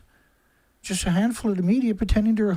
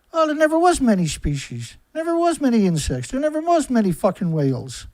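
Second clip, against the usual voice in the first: mocking excuse; 2 semitones higher than usual. Sneering at viewers' imagined excuse, lightly mocking. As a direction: parrot their lame excuse with scorn. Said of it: "Is that what you're gonna tell yourself".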